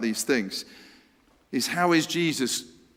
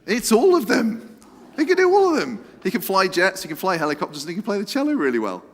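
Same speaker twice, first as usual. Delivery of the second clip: excited reveal; 7 semitones higher, 6 dB louder, faster than usual. Real, not acted. Excited answer reveal to the audience.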